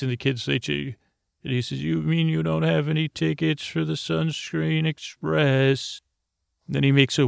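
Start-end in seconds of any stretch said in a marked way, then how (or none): 1.8-6.0 higher, put-on conductor voice in mock disbelief. Uncle teasing the ticketless kids, mock surprised conductor. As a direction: play the shocked ticket inspector.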